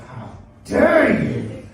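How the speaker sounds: high, loud, drawn-out mock outrage; stretched, shouted mock offence; hammed-up indignant outburst. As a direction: rise to the bait with a theatrical shout. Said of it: "I rose to it immediately".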